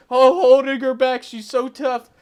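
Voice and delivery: high, loud sarcastic jeer; mocking. Reviewer mocking the crew holding Madison back, sarcastic jeer. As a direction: sneer at her fake toughness. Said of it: "everybody's like".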